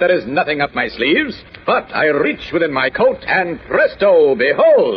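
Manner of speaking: slow magician's flourish, dropping onto a strong "behold"; showman's reveal. Acted. Kent pulls out the missing parrot for his friends, showman's reveal. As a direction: present it like a stage conjuror.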